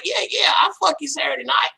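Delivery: high, far-off eager shout; mock excited promise; eager mock yes. Eager agreement all week.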